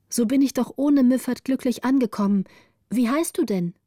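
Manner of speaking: happy to have arrived safely; relieved little girl. Acted. Gritta tells Margareta she has arrived, in a glad girl's voice.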